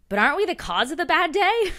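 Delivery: imitating Sue. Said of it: "And when Sue goes".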